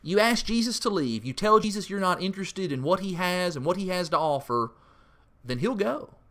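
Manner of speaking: usual speaking voice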